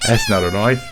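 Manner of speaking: loud, rising quote of a film line; movie line impression. Challenging someone over a knife, as a loud movie quote. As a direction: throw out the challenge loudly.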